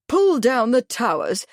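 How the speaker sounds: incredulous echo; astonished. Acted. Bradford stunned by the Major's demand, astonished. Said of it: "Bradford was astonished".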